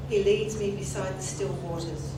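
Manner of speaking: solemn, measured scripture reading; psalm reading. Acted. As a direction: read it reverently, like at a funeral. Reads the twenty-third Psalm.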